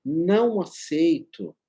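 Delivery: slow, deliberate no; convinced refusal. Shown as a demonstration.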